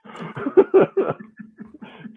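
a high breathless burst of laughter. Real, not acted. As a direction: let out a high airy laugh.

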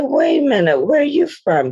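a lightly done Jamaican mother asking, high and startled; Jamaican accent. Retold or imitated. Jamaican actress asks castmate her origin, Jamaican accent, pitched high. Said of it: "I start talking like this".

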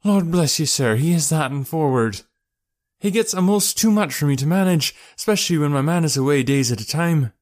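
high-pitched working woman voice; chatty mother, flattered. Acted. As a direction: gush proudly as the boatman's wife.

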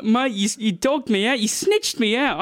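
slow, high-pitched accusation; mock betrayal. Boy to mate who snitched, mock betrayed. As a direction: draw out the wounded accusation.

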